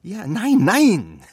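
emphatic no. Acted. Father firmly corrects son.

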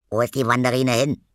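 astonished. Acted. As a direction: blurt out the wonder quickly. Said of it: "hat Zippel erst mal gestaunt". (schnell und staunend, höher und lauter)

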